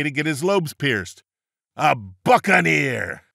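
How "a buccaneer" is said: drawn-out buccaneer cry; pirate shout. Acted. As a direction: bellow the punchline like a pirate. Pirate joke punchline called out.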